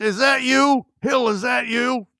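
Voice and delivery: squeaky high voice; high-pitched quote. Retold or imitated. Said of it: "He goes".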